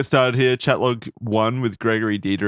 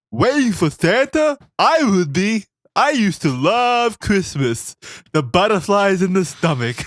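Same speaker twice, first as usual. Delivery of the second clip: high, slow, dopey nerd voice; a goofy high nerd reading creepy lines; fat nerd voice; 9 semitones higher, 3 dB louder, slower than usual. Acted. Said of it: "your fat nerd voice with the lazy eye".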